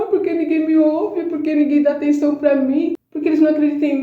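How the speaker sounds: high, whiny mock complaint; mock whining. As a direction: whine like a sulking victim, mocking it. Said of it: "Não ficou lá chorando". (lamúria fingida, aguda e chorosa)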